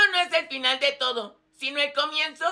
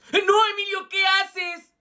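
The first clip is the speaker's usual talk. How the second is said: alarmed protest; 4 semitones higher, 5 dB louder, slower than usual. Acted. Protesta alarmada ante la broma.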